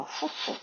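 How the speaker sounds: soft, quick puffed hoots; imitated gorilla hoots. Teacher shows the silverback sound, soft mock hooting. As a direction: puff like a silverback, quietly. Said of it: "막 이 소리를 내는 거죠".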